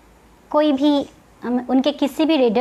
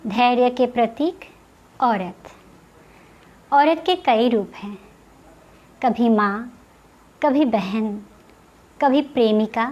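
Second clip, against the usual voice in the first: measured poetry reading with long pauses between short phrases; poem recitation. Acted. Poet reciting her first poem to online viewers, poem recitation. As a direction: recite it line by line, letting the refrain drop.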